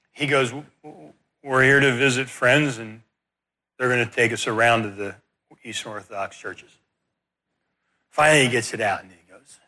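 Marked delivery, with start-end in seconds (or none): 0.5-6.7 stammering. Retold or imitated. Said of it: "he stuttered and stammered through it".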